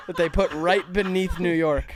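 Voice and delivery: breathy laugh into the words. Real, not acted. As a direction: laugh through the punchline. Laughs at own joke.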